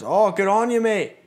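loud, high imitation of a cheering local; delighted cheer. Local man congratulating the passenger, delighted shout. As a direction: call out congratulations, voice shooting up.

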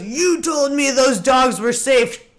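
slow, firm threat to the neighbor; mock-stern dad, slow and pointed; dad's angry warning. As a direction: lay it down slowly, shotgun in hand. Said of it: "and he goes".

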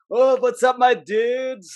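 high surfer-dude greeting; put-on stoner-bro voice; Jonah. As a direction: imitate a laid-back dude arriving. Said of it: "Jonah always comes in".

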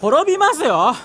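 slurred rant building to a shout; drunken shout. Acted.

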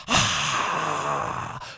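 long breathy crowd roar, softened; imitated crowd roar. Crowd after his set, imitated roar. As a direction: exhale like a distant screaming crowd. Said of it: "Fucking screaming".

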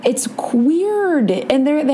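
a high whisper. Real, not acted. Describing the creepy museum to her cohost, whispered. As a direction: breathe it out like a spooky secret.

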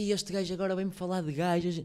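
half-hearted mock of a sceptic; mocking critic. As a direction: sneer it like a doubtful listener. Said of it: "as pessoas dizem".

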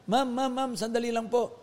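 lightly acted urgent call; retold calling out. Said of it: "sumigaw yung babae".

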